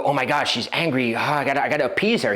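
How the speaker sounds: rushed, flustered worry; flustered panic. Retold or imitated. A man panicking when the girl gets angry, rushed and flustered. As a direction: babble it fast like he's rattled. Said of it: "He didn't go".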